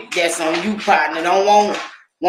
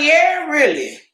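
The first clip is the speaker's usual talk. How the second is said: mock sassy reply; 10 semitones higher than usual. Answering Keisha's doubt with a high sassy retort. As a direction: fire back with sass. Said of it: "I was like".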